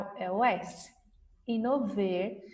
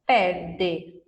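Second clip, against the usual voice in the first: slow and clear; 4 semitones lower, much slower than usual. Shown as a demonstration. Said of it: "eu vou colocar o R".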